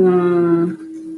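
hum, weighing it up; thoughtful humming. Real, not acted. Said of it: "déjame pensar".

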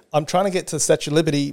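quick, roundabout "Statue of Liberty" buried in chatter; rambling Australian tourist. Retold or imitated. Australian tourist mock-rambling to a New Yorker for directions. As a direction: rush the ask inside a ramble. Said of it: "We'll go".

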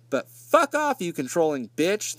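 half-joking yelled brush-off; mock angry boyfriend. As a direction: ham up the jerk telling her off. Boyfriend's gist, voiced mockingly.

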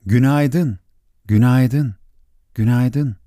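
repeated like a mountain echo. Acted. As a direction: let each repeat ring back like an echo. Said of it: "diye yanıtladı yankı".

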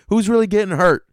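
comic defender shouting up for dads; exasperated outcry. Acted. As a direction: plead the dads' case with exasperation. Dad defender rant.

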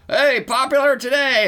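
mock announcer. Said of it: "because it was like".

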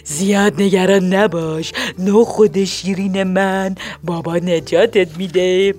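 put-on father gently reassuring his little girl. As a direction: soothe the worried child. Father pats daughter's head.

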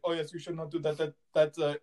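put-on Indian accent slipping towards Russian; lightly faked Indian accent, sounding half Russian; botched Indian accent. Doctor warning the patient of infection, muddled Indian-Russian accent. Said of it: "I sound more Russian than I do".

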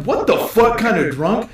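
high, drawn-out mock disbelief; thrown for a loop. Stranger reacting to the shot glass, imitated high incredulous question. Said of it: "This throws this guy in for a loop".

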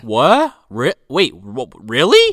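stammered, dumbfounded mock disbelief; mock surprise. Father hearing she wanted his help, mock surprise. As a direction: stumble over the words as if stunned. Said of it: "And he's like".

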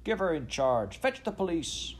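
a scandalised mob yelling all at once; indignant brokers shouting at the Queen; shouting crowd. A narrator's reading. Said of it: "two or three voices shouted at once".

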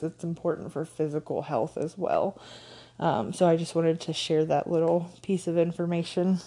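talking with a blocked nose; stuffed-up nose. Real, not acted. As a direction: speak through a stuffy head cold. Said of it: "I'm a little bit stuffed up".

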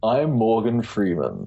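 slow, drawn-out celebrity impression, deliberately bad; Morgan Freeman. Shown as a demonstration. Guest showing the host the name trick, slow mock Morgan Freeman. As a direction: announce the name slowly in a put-on voice. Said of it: "do a Morgan Freeman impression".

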